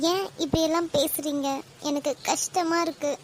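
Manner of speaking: a soft, teary plea; on the verge of tears. Acted. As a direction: let the hurt pull the voice down as tears come. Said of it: "நீங்க அழாதீங்க".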